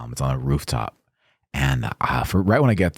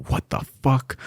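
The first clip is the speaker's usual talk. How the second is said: high-pitched retold outrage; livid; 9 semitones higher than usual. Guest reacting to music shut off, livid. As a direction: act out the livid guy, voice raised in pitch. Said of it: "The guy is fucking livid".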